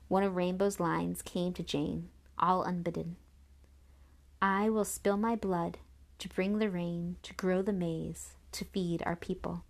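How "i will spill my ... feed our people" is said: slow, solemn line of verse; grave, measured recitation; solemn recital. A narrator's reading. Remembered tragic line of verse.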